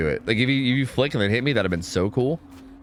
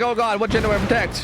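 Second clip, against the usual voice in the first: imitating the killer; 9 semitones higher than usual. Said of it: "She's like".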